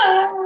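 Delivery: imitated sudden wail; mock burst of tears. Employee breaking down in front of the boss, mock wail. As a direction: burst into a comic crying noise. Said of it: "burst into tears in the office".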